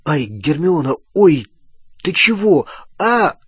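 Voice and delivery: short, jolted protests with rising pitch; startled yelps. Acted. Ron pelted by Hermione's blows, startled yelping. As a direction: yelp out in broken bursts. Рон под ударами Гермионы.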